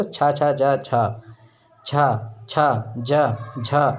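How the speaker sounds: छा, जा, झा with a held closure; affricate demo. Shown as a demonstration. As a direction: take time on each छा. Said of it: "इसमें आपको समय लग रहा है". (स्पर्श संघर्षी ध्वनियों का उच्चारण)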